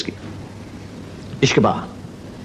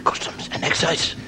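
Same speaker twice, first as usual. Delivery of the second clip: quiet alarmed farmer; nervous; 5 dB quieter than usual. Acted. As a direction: panic under the breath. Farmer alarmed at customs officer.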